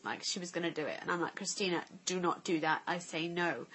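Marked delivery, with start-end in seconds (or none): 1.3-3.7 retold stern tone. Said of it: "really using that tone".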